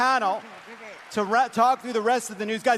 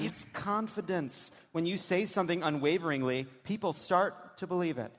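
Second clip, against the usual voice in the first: dramatic reading; 8 dB quieter than usual. Acted. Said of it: "when we do this dramatic reading".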